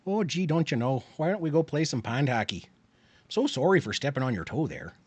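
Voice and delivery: mild mock Canadian accent; a light Canadian put-on, don't you know; playful half-hearted Canadian accent. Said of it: "I can do the Canadian too".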